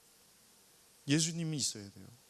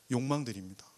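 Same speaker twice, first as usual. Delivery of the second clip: ordinary talk, nothing marked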